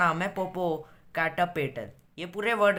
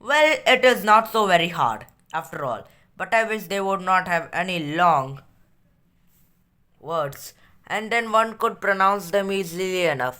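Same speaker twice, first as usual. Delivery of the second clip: very slow, deliberate read-aloud; measured classroom reading; story reading; much slower than usual. A narrator's reading. Reads story aloud in English.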